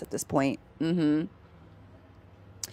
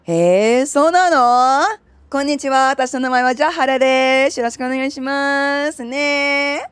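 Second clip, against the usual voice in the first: much higher, bright self-introduction; high-pitched Japanese; 8 semitones higher, 4 dB louder than usual. Shown as a demonstration. Streamer introduces herself in Japanese, pitched high. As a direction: lift it up high and cheerful. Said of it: "I could speak Japanese up here".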